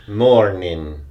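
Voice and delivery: Morning with the R carried and rolled. Shown as a demonstration. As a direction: lean into the R in Morning, Irish style. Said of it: "You gotta carry the R".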